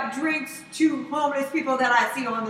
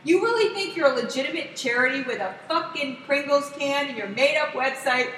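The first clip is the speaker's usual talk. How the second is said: losing it; 3 dB louder than usual. Retold or imitated. Fed-up rider snapping at a scammer, acted outburst. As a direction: explode at a scammer, retelling it with force. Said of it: "I'm, like, losing it".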